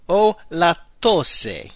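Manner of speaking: very slow, careful model phrase. Shown as a demonstration. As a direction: give every syllable room.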